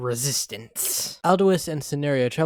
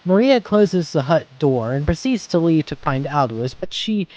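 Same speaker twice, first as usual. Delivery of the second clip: tense narration; 4 semitones higher, 8 dB louder than usual. A narrator's reading. Narrator rises at tense turn.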